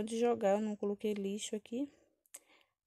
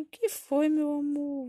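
put-on loud, higher baby-talk; cooing mother; 6 semitones higher, 7 dB louder, slower than usual. Mother asks crying baby what is wrong, cooing loudly. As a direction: coo brightly over a fussing baby.

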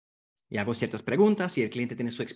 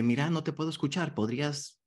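gentle request. Shown as a demonstration. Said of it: "Así, eh".

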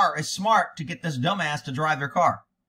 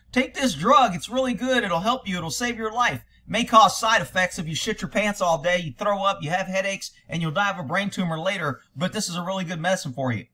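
mock drug ad. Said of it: "They go".

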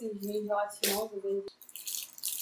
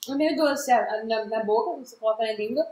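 talking while chewing; crunchy snack mid-bite; mouth full of chips. Real, not acted. Seen 0: Right speaker's jaw works on a chip eaten just before speaking.

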